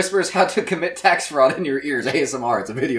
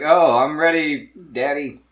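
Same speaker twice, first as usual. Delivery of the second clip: put-on high cute anime girl; 3 semitones lower, slower than usual. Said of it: "It's supposed to be like".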